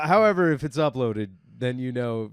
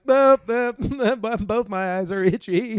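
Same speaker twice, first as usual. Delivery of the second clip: mock itchy-eye refusal; 8 semitones higher, 7 dB louder than usual. Acting out itchy eyes.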